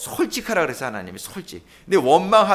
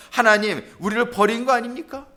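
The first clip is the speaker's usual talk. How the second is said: higher, resentful appeal; Gideon; 6 semitones higher than usual. Acted. Preacher as Gideon accusing God of abandoning them, resentful. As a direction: protest to God with raised pitch. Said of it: "막 원망하고 있는 모습".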